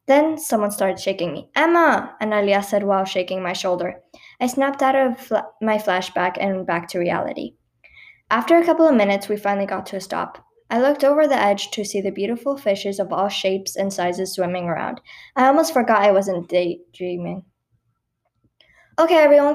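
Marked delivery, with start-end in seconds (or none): 1.6-2.2 calling out. A narrator's reading. Cousin shakes narrator awake. 19.0-19.5 calling out. A narrator's reading. Boat driver calls group.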